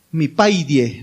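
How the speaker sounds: low, gentle pet name; imitating son's tender tone. Son to his dad by pet name, low and tender. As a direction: lightly voice a son's affection. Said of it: "Con un tono único".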